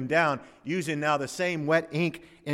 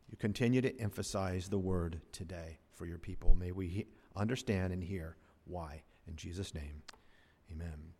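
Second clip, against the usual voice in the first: low, soft, hushed prayer fading to near silence; quiet prayer; 8 semitones lower, 6 dB quieter than usual. Acted. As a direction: pray softly to the Father. Pastor prays before sermon.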